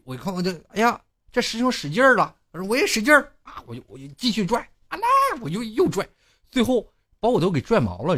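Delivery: high, loud, exasperated storytelling; worked-up retelling. Real, not acted. Comedian recounting being made to pull too hard, high and loud. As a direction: relive the strain and the annoyance.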